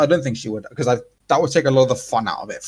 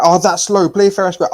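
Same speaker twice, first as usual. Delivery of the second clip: tags: imitated crowd; 7 semitones higher, 5 dB louder than usual. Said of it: "The crowd was like".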